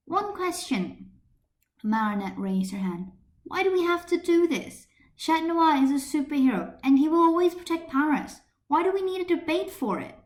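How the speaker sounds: high, loud indignant student; a student objecting to the teacher, high and indignant; indignant protest. Acted. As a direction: protest with rising outrage. Marinette protests hotly.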